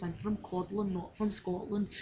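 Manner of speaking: practised line in an attempted Scottish accent; learner's Scottish accent, lightly worn. Shown as a demonstration. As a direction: put on a rough Scottish accent. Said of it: "only thing I can actually say in my Scottish accent".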